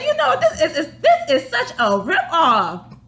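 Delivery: half laughing rip-off complaint. Retold or imitated. Griping to the store about the price, laughing. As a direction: laugh through the protest, slowing down. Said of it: "I said".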